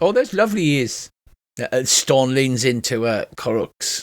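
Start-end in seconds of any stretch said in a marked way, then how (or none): 0.0-1.1 put-on Welsh accent, pitched up. Voicing a character who apologizes for his brother: Welsh accent. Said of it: "I should be doing a Welsh accent".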